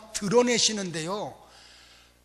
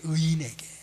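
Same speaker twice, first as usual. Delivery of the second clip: whispered answer; 3 semitones lower, 3 dB louder than usual. Acted. Answers own question in sermon.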